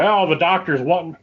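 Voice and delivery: just a hint of a Southern US accent. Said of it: "I don't know why I'm giving him a southern ha-, accent".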